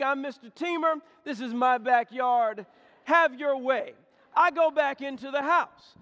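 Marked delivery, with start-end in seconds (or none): 0.0-3.9 mock proud announcement. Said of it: "I said to the snake".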